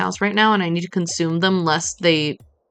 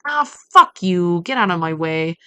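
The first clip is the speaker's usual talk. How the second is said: aggressive; 4 dB louder than usual. Real, not acted. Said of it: "I'm feeling very aggressive".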